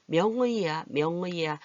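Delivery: 명의야 with each syllable distinct, full ui. Shown as a demonstration. Teacher mimics people who say 명의야 precisely, carefully articulated. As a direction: spell out 명의야 by ear as myeong-ui-ya. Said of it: "또박또박 말하는 경우도 있지만".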